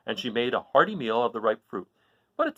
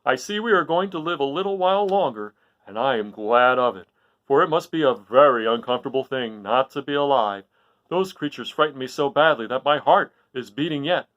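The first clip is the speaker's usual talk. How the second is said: relief; 6 dB louder than usual. Acted. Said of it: "drawing a long breath of relief".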